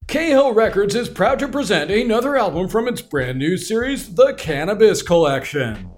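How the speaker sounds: punchy album ad read; ad announcer. Acted. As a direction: sell it like a TV ad.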